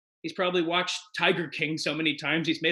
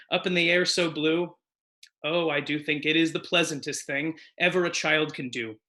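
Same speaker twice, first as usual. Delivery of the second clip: put-on lilting sing-song children's poem reading; poem recital. Performer reading a poem to the audience, lilting. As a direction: recite it like a gentle nursery verse.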